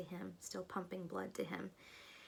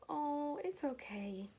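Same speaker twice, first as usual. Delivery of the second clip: tender whisper; 7 semitones higher, much slower than usual. Retold or imitated. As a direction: hush it gently to the newborn. Mother comforting newborn.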